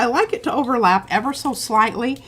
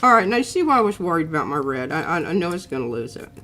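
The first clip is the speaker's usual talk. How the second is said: talking around a pen in mouth; 3 semitones lower, faster than usual. Real, not acted. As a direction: speak with a pen between the lips. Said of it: "take the pen out of your mouth".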